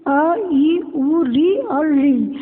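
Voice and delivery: each short vowel said clearly and slowly, one by one; short vowels recited. Shown as a demonstration. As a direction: recite अ, ई, उ, री like a teacher at the board. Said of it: "ह्रस्व स्वर के उच्चारण में बहुत कम समय लगता है". (ह्रस्व स्वर धीरे-धीरे साफ़ बोलना)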